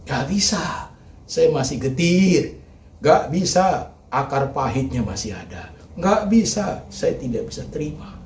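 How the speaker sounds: high pained refusals, mixed with hushed lines; the heart speaking. Acted. Preacher voicing a hurting heart, pained refusals. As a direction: voice the wounded heart crying no. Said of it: "Hatimu berkata".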